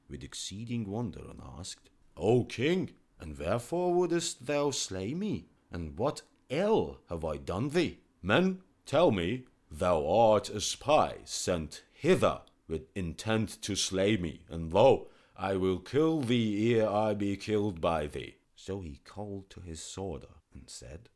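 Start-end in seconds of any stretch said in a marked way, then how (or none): 2.2-8.0 loud, high desperate plea; pleading physician. Acted. Physician begging the king who would slay him, loud. 8.2-18.3 loud, accusing royal voice; angry king. Acted. King accusing the physician of plotting, loud and angry.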